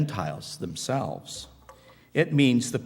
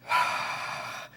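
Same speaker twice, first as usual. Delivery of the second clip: shaken breath; 4 dB quieter than usual. Acted. Recalling the blinding encounter.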